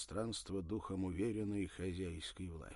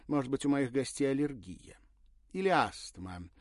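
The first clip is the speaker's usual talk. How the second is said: sarcastic; 6 semitones higher, 10 dB louder than usual. Acted. Irina needling the waiter.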